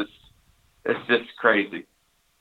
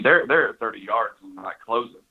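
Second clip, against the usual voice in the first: ordinary talk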